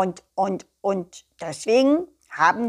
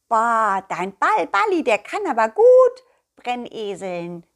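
amazed exclamation; 5 dB louder than usual. Acted. Nettle voiced in amazement.

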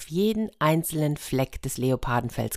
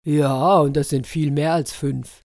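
firm, louder start at usual pitch; solid, matter-of-fact elephant; elephant confirming; 4 dB louder than usual. A narrator's reading. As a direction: confirm it with weight. Elephant confirms the higher count.

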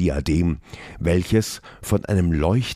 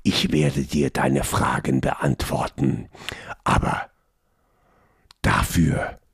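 mocking god voice; 4 semitones lower than usual. A narrator's reading.

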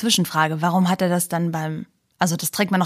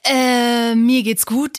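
too much caffeine; 3 semitones higher, 4 dB louder, much slower than usual. Real, not acted. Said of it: "zu viel Energy Drink getrunken".

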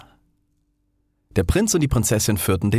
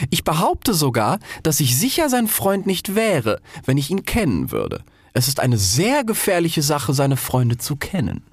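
pompous rocket; 8 semitones higher than usual. Acted. Rocket lectures the Roman candle, pompous and high. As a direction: explain it as if wise.

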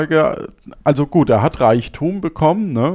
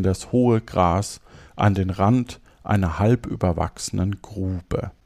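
measured, clearly articulated storytelling; fairy-tale narration; 4 semitones lower than usual. Acted. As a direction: read the tale aloud phrase by phrase. Reads a fairy tale aloud. (ruhig ein Märchen vorlesen)

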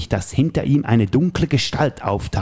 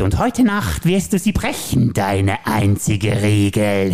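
Joker voice; slower than usual. Acted. Plays the Joker in the scene.

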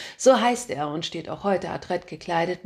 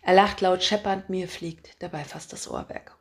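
loud, brash editor barking orders; a pushy chief editor who loves his own voice; booming boss; 4 dB louder than usual. Acted. Chief editor calling his reporter, booming and pushy.

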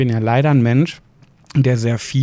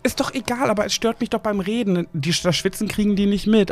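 indignant protest; 8 semitones higher, 3 dB quieter than usual. Real, not acted. Heated bickering about noise.

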